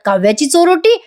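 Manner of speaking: imitated wide-eyed surprise; mock astonishment. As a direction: echo it as a stunned aunt. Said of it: "मोठे मोठे डोळे करून बघायला लागतात".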